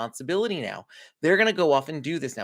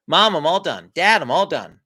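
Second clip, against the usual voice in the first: put-on louder kid's check-in call; kid reporting back; 7 dB louder than usual. Kid checking in with Mom and Dad, announcing call.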